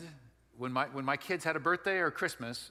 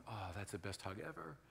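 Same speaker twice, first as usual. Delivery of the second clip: contented reaction; 7 semitones lower, 12 dB quieter than usual. Acted. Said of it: "and you're going".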